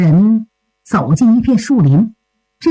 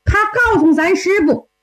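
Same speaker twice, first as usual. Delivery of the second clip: lightly voiced young disciple, higher pitch; 小徒弟诉说缘由; 4 semitones higher than usual. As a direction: explain yourself eagerly to your senior, pitched up. (小徒弟略高声地向师兄解释)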